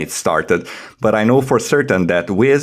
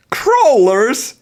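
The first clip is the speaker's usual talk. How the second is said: much higher, louder squeal of disbelief; hammed-up shocked question; 4 dB louder than usual. Host reading the guide aloud, squealing mock shock. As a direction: shriek the word in mock astonishment. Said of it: "now we are going to do dramatic reading".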